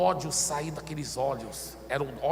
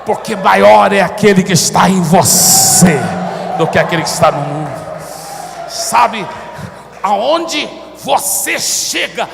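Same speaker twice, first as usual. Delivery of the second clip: very loud, emphatic pulpit shouting; full-force preaching; 2 semitones higher, 15 dB louder, slower than usual. Real, not acted. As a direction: thunder it out to the congregation in big phrases. (pregação aos brados)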